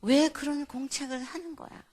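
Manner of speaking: mildly cross, reproachful questioning; retold angry scolding. Mother scolds child over notebook choice, mildly angry. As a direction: imitate an exasperated parent. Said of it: "제가 막 화가 나는 거예요".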